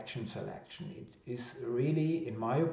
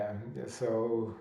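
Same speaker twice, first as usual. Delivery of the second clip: normal talking voice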